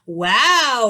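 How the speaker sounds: loud delighted whoop; kids yelling. A narrator's reading. Kids whooping when their teacher is absent. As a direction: cheer like the teacher just vanished. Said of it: "yelled the kids".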